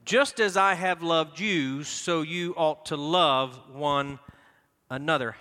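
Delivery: slow, emphatic reading, love punched; reading aloud together. Shown as a demonstration. Pastor coaxing the congregation through the verse, emphatic. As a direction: lean on love. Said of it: "come on".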